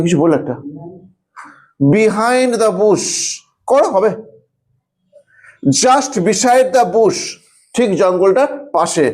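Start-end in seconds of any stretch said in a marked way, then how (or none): 1.9-3.1 words drawn out one at a time; slow dictation. Shown as a demonstration. Teacher dictating the sentence to students, very slowly. 5.8-7.2 words drawn out one at a time; slow dictation. Shown as a demonstration. Teacher dictating the sentence to students, very slowly.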